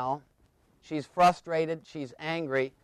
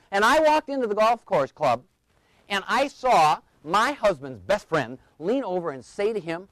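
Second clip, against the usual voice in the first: higher, indignant retelling; mock grievance, pitched up; imitated aggrieved wife; 4 semitones higher than usual. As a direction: tell it as an outraged wife. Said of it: "she starts yelling at him".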